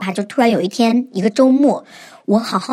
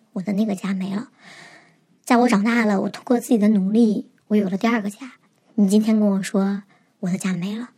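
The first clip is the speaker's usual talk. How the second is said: tearful plea; 3 dB quieter than usual. Retold or imitated. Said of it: "我看着他就哭嘛".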